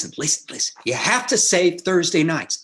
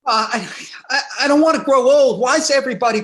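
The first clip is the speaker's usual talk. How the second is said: laughing it out, higher and louder; nervous laugh; 7 semitones higher, 5 dB louder than usual. Acted. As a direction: laugh through the panic. Nervous groom confesses fear.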